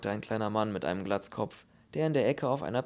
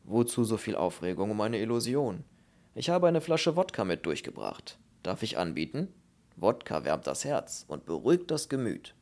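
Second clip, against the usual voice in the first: put-on genial Russian-accented voice; courteous, lilting Russian offer; warm Russian bass. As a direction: soothe them with a Russian accent. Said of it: "warme Bassstimme mit russischem Akzent".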